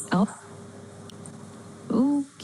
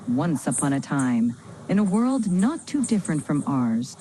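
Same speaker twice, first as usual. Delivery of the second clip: dramatic; 3 semitones lower than usual. Acted. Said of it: "Let's add some drama".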